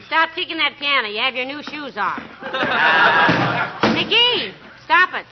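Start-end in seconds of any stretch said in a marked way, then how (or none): 2.2-3.9 a warm low chuckle at her husband; amused laugh. Acted. Wife chuckling at her husband's temper, amused laugh. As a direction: laugh it off fondly.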